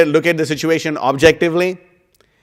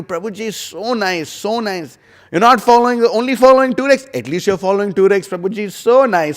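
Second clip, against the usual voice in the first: mock flatterer; 4 semitones higher than usual. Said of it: "a flatterer is easy to come across".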